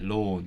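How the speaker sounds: "lawn" with a very close vowel. Shown as a demonstration. Speaker recalls a phase of saying it so, close-vowelled "lawn". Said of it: "very close to one".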